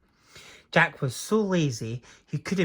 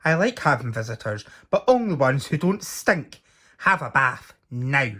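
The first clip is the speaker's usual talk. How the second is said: louder giant order; booming giant; 5 dB louder than usual. Acted. Giant telling stinky Jack to bathe, booming. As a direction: order him to the bath.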